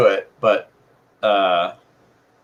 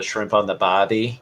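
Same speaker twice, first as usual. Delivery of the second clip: Australian accent. Shown as a demonstration. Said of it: "warm up to do an Australian accent".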